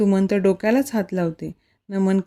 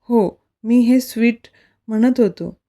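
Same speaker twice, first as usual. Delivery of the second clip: mischievous; 3 semitones higher than usual. Acted. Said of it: "खटाळ हसत".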